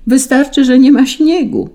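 high, loud complaint; children shouting. A narrator's reading. Children upset about the missing snow, high shouting. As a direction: shout it up high all through. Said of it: "krzyczały dzieci".

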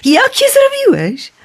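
put-on high, breathless boy's question; amazed boy Ikar. A narrator's reading. Syn pyta ojca o skrzydła, zdumiony wysoki głos. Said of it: "dopytywał się oszołomiony Ikar".

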